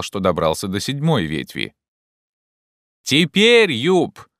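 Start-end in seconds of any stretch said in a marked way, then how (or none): 3.0-4.3 high, loud, excited call; agitated shout. A narrator's reading. Legrand calls to Jupiter, shouting with agitation. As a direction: cry out to someone far above. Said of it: "крикнул Легран с очевидным волнением".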